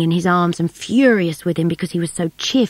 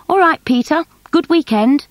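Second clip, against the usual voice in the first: higher, louder cheery call; 9 semitones higher, 4 dB louder than usual. A narrator's reading. Bill calling to the taxi driver, loud cheery call.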